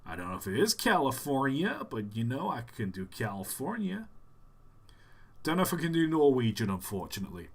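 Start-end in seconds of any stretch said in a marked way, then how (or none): 0.1-4.1 attempted California accent; tentative Californian lilt. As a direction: have a go at sounding Californian. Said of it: "kind of California accent".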